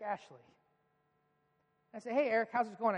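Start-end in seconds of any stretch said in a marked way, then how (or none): 2.1-3.0 forced cheer. Retold or imitated. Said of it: "I try to cover over the fact that I've been crying".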